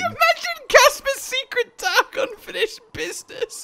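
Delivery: spooky storyteller voice. Pretend. Spooky telling of Casper's secret.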